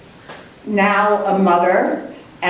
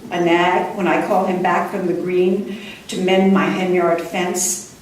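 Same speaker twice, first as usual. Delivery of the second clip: poem reading. Acted. Poet reading her poem about an unhappy marriage, measured. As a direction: let the lines unfold calmly.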